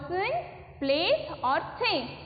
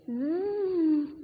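long buzzing "zzz"; imitated snoring. Teacher asks children what is that noise, mock snore. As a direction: mimic a sleeper's snore as a steady buzz.

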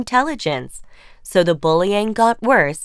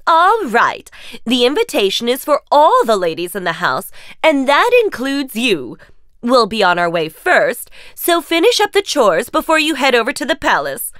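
scheming stepmother; 3 semitones higher, 3 dB louder than usual. Acted. Stepmother's cruel condition.

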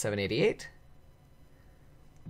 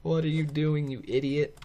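imagined viewers' higher-pitched outcry; mock screaming; 6 semitones higher than usual. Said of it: "I bet you guys were screaming".

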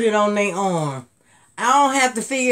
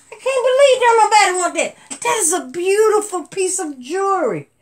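higher, louder, fast and laughing through it; can't believe it, laughing; laughing disbelief; 9 semitones higher, 4 dB louder than usual. Real, not acted. Nobody wants the bracelet.

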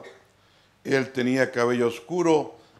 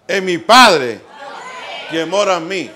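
loud, raised preaching voice; prédica enérgica; 5 semitones higher, 7 dB louder than usual. Real, not acted. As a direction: preach it out with force, pausing between phrases. Predica a toda fuerza. (predicando con fuerza, voz alzada)

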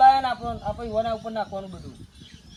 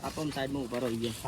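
low and much softer aside; hushed aside; 10 semitones lower, 10 dB quieter than usual. Acted. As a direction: keep it hidden from the guests. Guests arriving, hushing. (ધીમા અવાજે બાજુમાં કહેવું)

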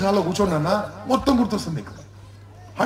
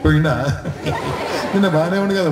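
laughing at death news. Acted. Mourner hearing of a death, mock laughing surprise. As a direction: act out inappropriate laughter at bad news. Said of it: "పోయినా నవ్విరు అనుకో".

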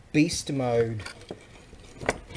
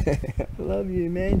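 mock affection; 6 semitones higher than usual. Repeat, lighter.

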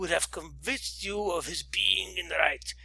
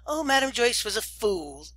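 higher, lightly voiced young lady; young lady exclaiming; 4 semitones higher than usual. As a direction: exclaim it dismissively. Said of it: "she exclaimed".

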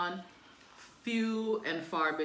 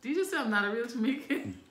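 mock outrage; 6 semitones higher, faster than usual. Real, not acted. Friend insults her Jamaicanness.

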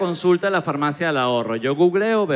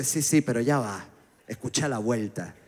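softer, lower hushed aside; confiding hush; 4 semitones lower, 6 dB quieter than usual. Retold or imitated. Cheap friend confides the catch, hushed lower voice. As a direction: lean in and let him in on the secret.

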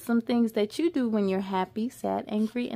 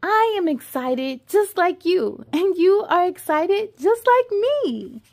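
louder, bright eager refrain; storybook joy; excited; 3 semitones higher, 5 dB louder than usual. Acted. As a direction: cheer it along.

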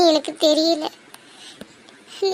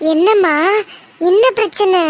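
alarmed mother; 5 dB louder than usual. Acted. Mother alarmed by crying daughter.

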